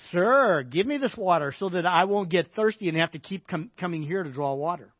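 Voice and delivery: loud, stretched "sir", then mock request; sarcastic request. Woman brushing off Jesus's offer of water, sarcastic. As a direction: ask with sarcasm to end the conversation. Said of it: "this is the kind of sarcastic remark".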